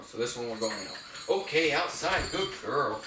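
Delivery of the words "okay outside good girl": lifted, upbeat cue and praise; emphasized dog cue. Shown as a demonstration. Trainer taking dog out, high emphatic cue and praise. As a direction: raise "outside" high for the puppy. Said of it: "I'm gonna emphasize the word outside".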